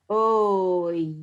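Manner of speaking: put-on oy said like the end of boy. Shown as a demonstration. Teacher modelling the vowel oy. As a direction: sound out oy, rhyming with boy. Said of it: "Say oy".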